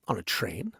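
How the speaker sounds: soft unvoiced whisper of the rhyme. Reading Green Eggs and Ham aloud, whispering. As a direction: breathe the line in a hush.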